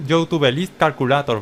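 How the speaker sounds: English words in a deliberate Spanish accent; Spanish accent on the English name. Shown as a demonstration. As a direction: pronounce it the Spanish way for clarity. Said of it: "Con ese acento en inglés".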